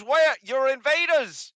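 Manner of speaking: high, loud, brash goblin voice; loud hobgoblin. Acted. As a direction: bark it out like a pushy hobgoblin.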